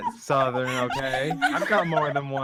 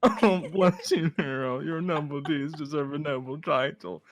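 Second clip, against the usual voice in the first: Nigel Thornberry voice. Acted. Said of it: "Starting to sound like Nigel Thornberg".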